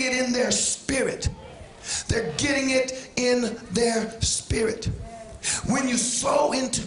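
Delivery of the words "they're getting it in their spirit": slow preacher's repetition, spacing out the words; slow, deliberate repeat. Real, not acted. Preacher repeats it for the church, slow and deliberate. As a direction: draw the phrase out so it sinks in.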